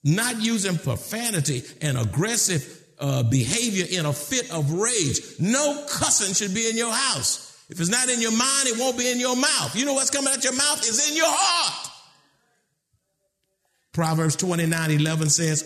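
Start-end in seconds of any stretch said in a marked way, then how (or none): 5.4-11.9 preaching. Real, not acted.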